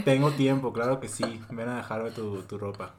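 overeager new-hire offering to take everything; eager to please. Retold or imitated. New employee volunteering for every task, eager and bright. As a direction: sound like you'll say yes to anything. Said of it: "estar como que diciendo".

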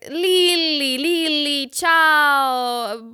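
high, drawn-out Italian caller greeting; Giovanni. Retold or imitated. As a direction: imitate an effusive Italian on the phone, stretching the vowels. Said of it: "jetzt hat Giovanni also wieder angerufen".

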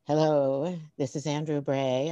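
low-pitched imitation of a child reporter; hushed on-air introduction, lightly imitated; mock reporter. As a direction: deliver it like a boy playing news reporter. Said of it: "Like a reporter".

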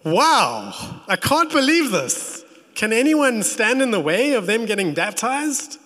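high, loud amazed wow; shocked disbelief. Retold or imitated. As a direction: marvel out loud at what you see. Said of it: "he's almost shocked. You can read this in this, in his tone".

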